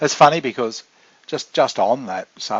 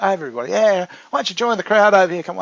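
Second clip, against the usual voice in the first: mock shout at top of voice, high-pitched; 7 semitones higher than usual. Speaker recalling a man who could work a room, imitating someone shouting. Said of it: "top of his voice".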